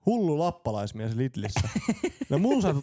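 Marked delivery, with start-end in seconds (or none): 0.1-1.7 slow amused repeat. Real, not acted.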